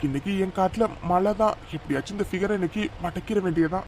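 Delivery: slow, sly, hushed lecher's voice; sleazy scheming man. Acted. A creep sizing up a woman alone at the bus stop, slow and sly. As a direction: slowly savor a sly plan under the breath.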